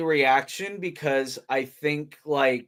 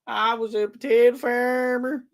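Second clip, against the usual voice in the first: mock Irish accent; 9 semitones higher than usual. Joking about Southern farmers.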